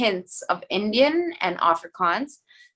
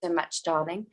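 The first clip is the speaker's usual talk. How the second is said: lightly put-on British-sounding accent; ordering water in a light foreign accent; posh accent; 3 dB quieter than usual. Shown as a demonstration. Actress at a counter, mild put-on accent, ending softer. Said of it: "I'll just come across and be like".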